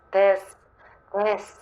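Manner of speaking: soft, hushed new persona voice; Juniper's voice. Pretend. Paris tries on the calm Juniper persona, hushed. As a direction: drop into a quiet, composed Juniper. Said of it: "this is Juniper's voice".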